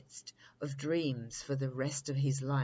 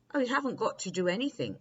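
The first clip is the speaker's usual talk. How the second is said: with a chuckle; 6 semitones higher, 4 dB louder, much faster than usual. A narrator's reading. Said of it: "with a chuckle".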